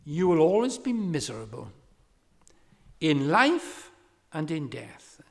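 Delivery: imitating a preacher's loud, high direct appeal; retold pulpit exhortation, forceful and emphatic; lay preacher. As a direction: call out the warning, then ease down at the end. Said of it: "he said".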